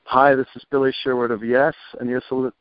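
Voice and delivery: first go at a station ID; station ID read. Acted. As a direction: deliver a radio ident to listeners. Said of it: "would you give me a station I D".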